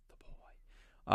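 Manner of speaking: hushed, voiceless whisper; spooky-quiet whispered echo; whispered aside. Pretend. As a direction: whisper the title under the talk. Aside echoing the film's title.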